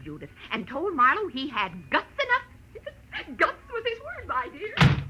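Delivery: high, giddy laughter through the words; giggling retelling. Acted. Lady laughing to her friend over the killer's word, giddy. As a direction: savour the thrill and laugh it out.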